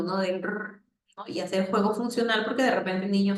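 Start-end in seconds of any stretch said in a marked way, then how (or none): 0.4-0.8 car engine rrr. Shown as a demonstration. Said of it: "hacer el sonido".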